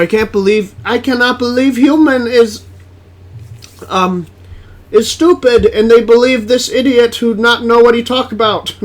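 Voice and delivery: lightly put-on alien in broken English; a halting, dim-witted alien scolding humans. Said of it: "I was trying to sound like an alien".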